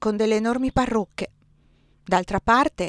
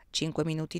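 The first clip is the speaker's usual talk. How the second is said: whisper; 4 semitones lower, 7 dB quieter than usual. A narrator's reading. Narrator whispers aside.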